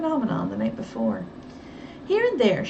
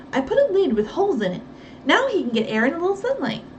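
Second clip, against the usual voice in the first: fast, higher chatter; Effie, hurried explaining; 5 semitones higher, faster than usual. Acted. Housekeeper quickly explaining the pigeon box to Nancy. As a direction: rattle it off proudly.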